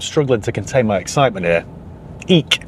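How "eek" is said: mock squeal. Shown as a demonstration. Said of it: "as they say in text".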